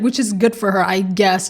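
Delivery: sneak the shade into I guess; shady. Retold or imitated. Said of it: "the way she just said".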